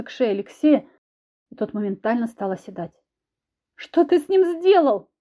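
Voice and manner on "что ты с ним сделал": high, loud frightened cry; frightened scream. A narrator's reading. Wife screams in fright at her husband, high and loud. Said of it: "испуганно закричала я".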